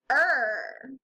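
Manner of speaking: "er" held alone as one drawn vowel sound; isolated sound. Shown as a demonstration. Teacher shows what the rest of it says, sound isolated. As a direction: say just "er", the end of the word. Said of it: "but the rest of it says".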